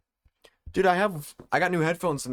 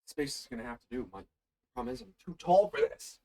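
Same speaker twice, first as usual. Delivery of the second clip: distant voice, away from the mic; muttered from across the room; far from mic; 5 dB quieter than usual. Real, not acted. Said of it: "It sounds like you're across the room now".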